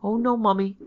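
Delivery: put-on high, loud child's wail; tearful protest. A narrator's reading. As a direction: protest as if bursting into tears. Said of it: "burst into tears".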